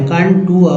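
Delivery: कंटूर said with a "tooar" ending; tooar pronunciation. Shown as a demonstration. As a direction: read कंटूर as kan-tooar, not with a plain "ar". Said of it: "लेकिन यहाँ टूअर पढ़े".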